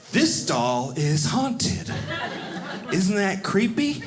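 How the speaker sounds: slow spooky guy. Retold or imitated. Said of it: "And then he goes".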